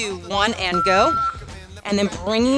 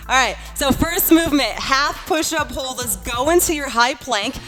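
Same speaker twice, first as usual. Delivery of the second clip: lively fitness coach cueing class; aerobics instructor. Acted. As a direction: coach the class, upbeat and encouraging. Leads workout class.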